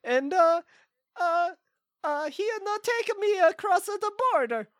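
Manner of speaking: hammy put-on Swedish accent; fake Swedish accent. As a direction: play a bad Swedish caller. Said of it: "this isn't a very good, uh, Swedish accent".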